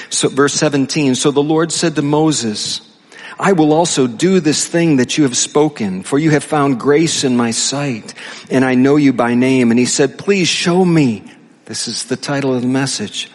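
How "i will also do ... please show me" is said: measured, deliberate Bible reading; scripture reading. Acted. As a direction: read the verse out solemnly to a congregation. Reads scripture aloud.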